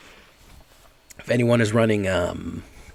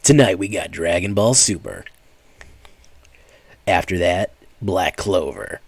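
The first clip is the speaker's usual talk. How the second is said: Tom from Toonami; 4 dB louder than usual. Retold or imitated. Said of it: "Oh, that's who said that, Tom from Toonami".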